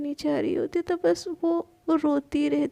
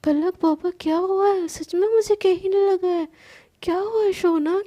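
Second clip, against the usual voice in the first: worried; 4 semitones higher, 3 dB louder than usual. Acted. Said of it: "वो एकदम डर जाती है".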